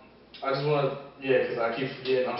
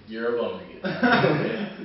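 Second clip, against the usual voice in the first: laughing; much slower than usual. Real, not acted. Laughs mid insult.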